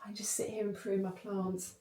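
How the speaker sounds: softly murmured, half-whispered; dreamy contentment. Acted. Savouring a Saturday with the plants, dreamy and soft. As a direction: drop into a soft, airy near-whisper.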